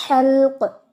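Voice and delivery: हल्क with no vowel between l and k; correct pronunciation. Shown as a demonstration. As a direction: say हल्क as one tight syllable. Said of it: "हलक नहीं कहना".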